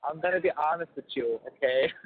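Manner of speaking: lightly imitated Cajun mom; a hint of Cajun, motherly frankness; Cajun mom impersonation. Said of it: "I love that Cajun".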